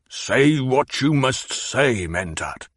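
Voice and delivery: slow, deliberate permission; grudging. Acted. Baron grudgingly lets Hawat speak, slow. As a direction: concede it slowly.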